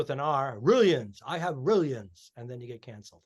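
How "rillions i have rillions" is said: drawn-out joke in a mock Chinese accent; lightly put-on Chinese accent. Comic riffing on a taboo bit, mock Chinese accent. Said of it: "you can't do an accent".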